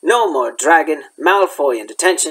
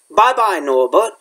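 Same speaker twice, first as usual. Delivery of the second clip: sobbing; 3 semitones higher than usual. Acted. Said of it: "Hagrid sobbed".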